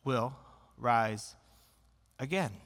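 low, slowing comfort; calm reassurance. Retold or imitated. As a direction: gently reassure the grieving sister. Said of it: "He just says".

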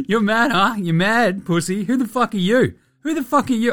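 high-pitched imitated trash talk; mock angry taunting. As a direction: taunt an opponent, playing up the outrage. Retold quarrel, Luka taunting Wagner.

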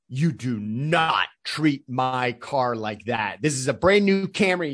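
slow, heavy, deliberate scolding; mock the driver's slow lecture; stern tirade. Uber driver scolding a passenger, slow and stern. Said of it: "He just goes on this tirade".

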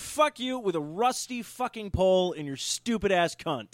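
a touch of mock fury at the snitch; reading out an imagined reply to the letter, mock furious; angry retort. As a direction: tell the caller off, swearing hard. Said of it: "And I'm all like".

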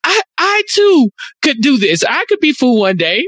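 hammed-up heroic resolve; mock-grand confidence. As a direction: declare it with grandly misplaced self-belief. Mock-grand retold self-delusion.

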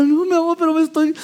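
wife protests to husband she is freezing, high; protesting wife. Pretend. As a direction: protest gently, then break off.

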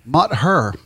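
"Mot her" said as "mother", with a vowel like in "mother". Shown as a demonstration. Asked to pronounce the word, says "Mot her" like "mother". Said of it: "how would you sp-, pronounce the word M O T H?".

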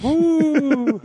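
high excited whoop. Real, not acted. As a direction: let out a big cheer. Cheering about hot script.

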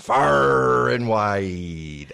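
loud, very slow pirate voice. Acted. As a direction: stretch it out like a pirate captain. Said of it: "our pirate voices".

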